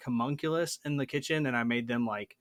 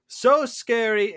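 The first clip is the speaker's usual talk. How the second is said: mock scared; 10 semitones higher, 9 dB louder, slower than usual. Mock horror about vampire horses.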